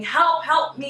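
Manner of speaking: a drowning person screaming to the walker, mild mock plea; mock cry for help. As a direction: call out like someone going under.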